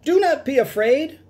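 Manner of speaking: high squeaky calming call; calm the crowd in a squeaky voice; reassuring showman. Acted. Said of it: "Doctor Varmint told the crowd".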